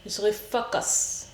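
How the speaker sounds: hushed self-pep whisper; breathy whispered resolve to concentrate; whispered focus. Real, not acted. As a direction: whisper it to yourself, steadying. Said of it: "Mais là, je vais prendre sur moi".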